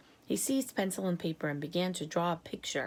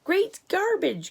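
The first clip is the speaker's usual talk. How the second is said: much higher, louder and slow outburst; outraged cry; 11 semitones higher, 6 dB louder, slower than usual. A narrator's reading. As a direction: explode in disgust. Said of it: "cried the president".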